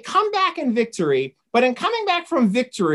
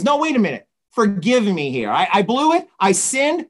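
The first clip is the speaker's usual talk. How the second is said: insistent mock plea; mild begging. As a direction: beg lightly, as if retelling. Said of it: "Saul begs him again".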